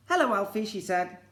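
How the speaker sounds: high, loud friendly hostess voice; cheery greeting. Acted. Bernard's mum welcomes Alfie at the door, cheery. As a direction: greet him brightly.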